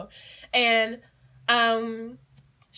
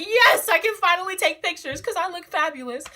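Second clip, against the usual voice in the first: excited yes; 8 semitones higher, 4 dB louder than usual. Retold or imitated. Excited to get phone back.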